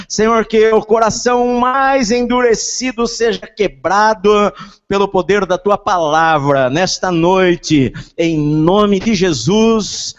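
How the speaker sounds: loud, slow, impassioned praying; fervent prayer. Acted. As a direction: pray with rising fervor. Preacher prays over congregation.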